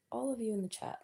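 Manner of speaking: soft playful whisper. Real, not acted. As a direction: breathe it like a secret. Playful aside to chat.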